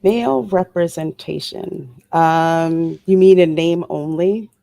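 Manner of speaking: dry, sarcastic questioning. Real, not acted. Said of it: "I say that very sarcastically".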